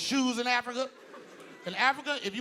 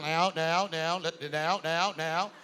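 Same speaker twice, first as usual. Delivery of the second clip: lower, halting politician imitation; Barack stuttering; 4 semitones lower, slower than usual. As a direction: stall on the word like a skipping record. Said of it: "He's always stuttering".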